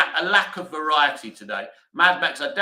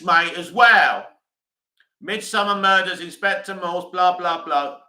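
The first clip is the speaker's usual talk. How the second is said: loud retort; 2 semitones higher, 6 dB louder than usual. Real, not acted. Answers the chat commenter, shouting.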